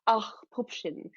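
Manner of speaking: lightly voiced German-accented mother; offhand, indulgent motherly apology. Mother apologizing to daughter, lightly German-accented voice.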